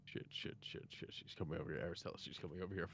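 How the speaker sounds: frantic hushed swearing under the breath; breathless whispered panic; panicked whisper. Acted. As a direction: whisper it in a panic so she won't hear. Panicked player hiding, whispering.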